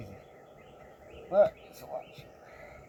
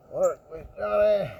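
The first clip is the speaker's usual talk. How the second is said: louder, slow urging; firm coaxing; 5 semitones higher, 3 dB louder, slower than usual. Real, not acted. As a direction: say it out loud, drawn out. Repeated plea, louder.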